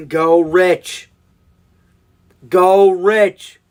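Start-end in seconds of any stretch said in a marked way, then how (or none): 2.5-3.6 louder, punchy urging call; loud cheer. Real, not acted. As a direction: cheer the pick on like a fan in the stands. Urging the pick.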